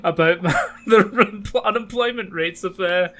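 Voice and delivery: mock Trump. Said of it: "it's like".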